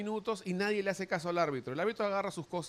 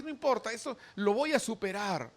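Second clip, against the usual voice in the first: high, brushing it off; high dismissive brushing off of conscience; dismissive self-talk; 5 semitones higher than usual. Acted. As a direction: wave the warning away.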